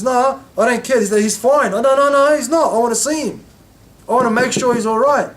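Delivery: high, loud retold protest; voicing a woman's agitated refusal; retold frantic insistence. Retold woman insists on seeing the Prophet.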